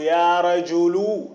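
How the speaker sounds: "يا رجل" ending in a drawn-out u, no n; no tanween. Shown as a demonstration. Teacher demonstrating a vocative without tanween, "يا رجل" ending on long u. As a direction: hold the final u of "رجل", adding no n sound. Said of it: "بلا تنوين".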